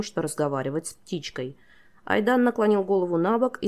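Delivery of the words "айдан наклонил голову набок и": ordinary delivery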